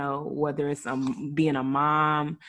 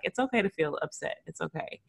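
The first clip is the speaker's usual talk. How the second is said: put-on reassuring the boys. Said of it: "I tell my boys".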